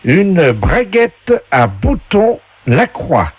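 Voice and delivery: high, slow host announcing prizes; game show voice. Acted. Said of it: "la voix du jeu".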